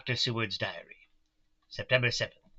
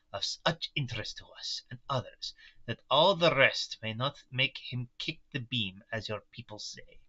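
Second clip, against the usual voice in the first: put-on light German-Russian mixed accent; old Dutch professor, lightly accented; Van Helsing accent. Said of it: "the accent I picked for Van Helsing".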